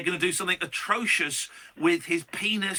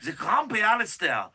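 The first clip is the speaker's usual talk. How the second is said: hammed-up Swiss lament, a bit higher; playful fake Swiss voice, slightly raised; mock Swiss accent; 4 semitones higher than usual. Host voicing a Swiss citizen about Paul's return, mock Swiss accent. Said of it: "It's a Swiss accent".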